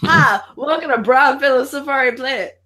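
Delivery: Brian Fellow. Retold or imitated. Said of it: "he goes".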